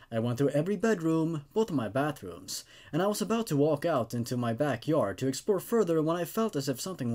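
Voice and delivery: steady, measured horror narration; story narration. A narrator's reading. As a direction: read it like a creepy campfire tale. Reads second creepypasta story aloud.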